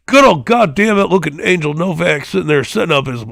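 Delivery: Jim Ross impression. Podcaster imitating Jim Ross calling Angel Novak, excited. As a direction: holler it like a veteran ringside announcer. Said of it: "I can't even do Jim Ross right now".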